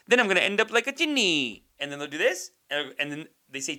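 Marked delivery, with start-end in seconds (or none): 0.1-1.6 higher, louder mock sitcom setup line; mimicked joke setup. Comic mimicking an Indian sitcom joke, hammed-up setup. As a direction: toss out a cheesy gag line, pitched up. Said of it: "they'll set it up like".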